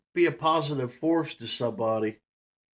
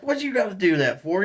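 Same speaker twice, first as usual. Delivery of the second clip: mock scolding; 5 semitones higher than usual. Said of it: "I was like".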